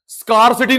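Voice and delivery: स्कार्सिटी with a long "skaar" like scar; wrong pronunciation. Shown as a demonstration. Teacher warning the class off a wrong pronunciation. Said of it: "स्कार्सिटी नहीं बोलेगा".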